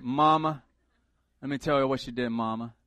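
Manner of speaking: put-on complaining to Mama in a country accent; lightly put-on country twang. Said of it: "it has to be a country accent".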